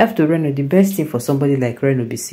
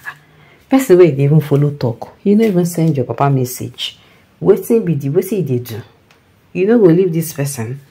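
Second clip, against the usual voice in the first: mock scolding; 2 semitones higher, 5 dB louder than usual. Imagined friend scolding the silent one.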